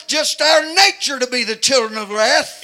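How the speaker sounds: loud, high shouting sermon; preaching at full force. Acted. Preacher urging congregation to crucify the flesh, shouting. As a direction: build to a hollering preacher's climax.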